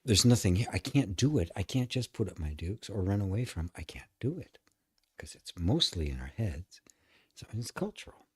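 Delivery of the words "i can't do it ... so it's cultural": whisper. Real, not acted. Whispered aside while teaching.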